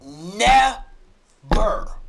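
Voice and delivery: never pushed out loud and slow; never held long and loud; stress on never. Real, not acted. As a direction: punch the word never. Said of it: "I repeat".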